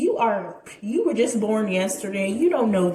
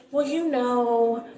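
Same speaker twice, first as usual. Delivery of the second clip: slow, earnest pep talk, lightly imitated; a hint of a slow motivational speaker; mom as motivational speaker; slower than usual. Imitating mom pepping up the dying boy, slow and earnest. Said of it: "whole motivational speaker".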